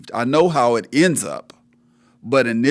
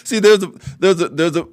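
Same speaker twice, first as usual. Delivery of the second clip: laughing; 6 semitones higher, 6 dB louder than usual. Real, not acted. Host laughing while speaking.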